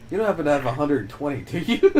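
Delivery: fast, laughing imitation, rising at the end; laughing mock ask. Imitating his sister asking for money, laughing. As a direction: rush the question, cracking up.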